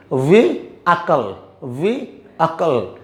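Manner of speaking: slow वी अकल, broken into vee and akal; वी अकल in two separate parts; split pronunciation. Shown as a demonstration. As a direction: say वी, pause, then अकल like the Hindi word. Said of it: "वी बोलकर".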